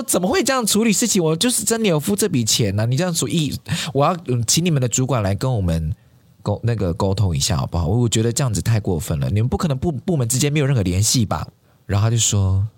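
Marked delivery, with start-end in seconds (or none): 0.0-11.5 high-pitched indignant protest that settles down as it goes; retold outburst. Friend venting at customer service, a retold angry outburst. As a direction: demand answers, mock furious at first. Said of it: "然后我朋友就大发火".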